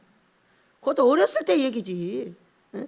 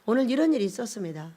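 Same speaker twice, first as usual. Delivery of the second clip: quiet, lower, plain report to Father; just tell God simply; calm matter-of-fact prayer; 5 semitones lower, 6 dB quieter than usual. Retold or imitated. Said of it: "기도를 이렇게 합니다".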